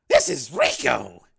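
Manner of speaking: loud, slow self-introduction; pimp Rico. Acted. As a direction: announce yourself like a cocky pimp. Voices Rico on phone.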